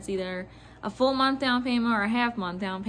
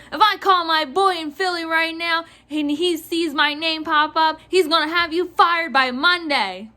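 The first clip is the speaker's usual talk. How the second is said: mock threatening rant, slightly raised; imitated losing it; 4 semitones higher, 3 dB louder than usual. Clerk mimics customer threatening to get her fired, irate. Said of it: "She lost it".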